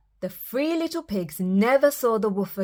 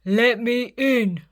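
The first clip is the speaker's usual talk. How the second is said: slow, louder wolf demand; roaring wolf; 3 semitones higher, 4 dB louder than usual. Acted. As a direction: roar it slowly at the door. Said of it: "roared the wolf".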